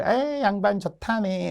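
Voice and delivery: high, drawn-out merry cry; acted carefree delight; gleeful enjoyment. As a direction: play the clueless nobleman enjoying himself. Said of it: "이러면서 즐거워하니까".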